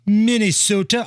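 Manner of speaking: half-hearted Minnesota accent on Minnesota. Shown as a demonstration. Radio host tries a Minnesota accent, half-hearted. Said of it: "I don't do a very good Minnesota accent impression".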